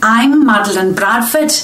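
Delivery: a dialect coach's shaky Scouse, slipping between regions; wandering Liverpool accent. Acted. Dialect coach showing off her Liverpool accent, drifting Scouse. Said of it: "I'm from Liverpool".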